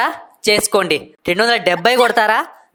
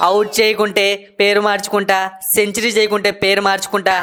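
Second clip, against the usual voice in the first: mocking film dialogue; 2 semitones lower than usual. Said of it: "ఏంటి పాత cinema డైలాగులు?".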